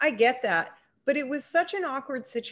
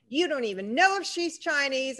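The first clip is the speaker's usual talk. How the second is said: indignant; 4 semitones higher, 4 dB louder than usual. Retold or imitated. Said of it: "created a whole scene".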